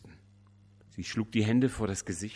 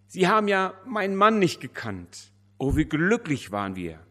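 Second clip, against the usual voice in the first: high, loud grieving cry of a widow; tearful widow; 8 semitones higher, 8 dB louder than usual. A narrator's reading. Widow tells the pastor of her husband, crying high and loud. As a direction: cry it out through tears, pitched way up. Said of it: "unablässig liefen ihr die Tränen".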